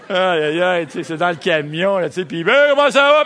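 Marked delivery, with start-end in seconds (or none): 2.4-3.2 high, loud laughing chatter; big booming voice. Retold or imitated. Driver greeting passengers, loud and high. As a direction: boom it out like a farmhand. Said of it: "les grosses voix agricoles".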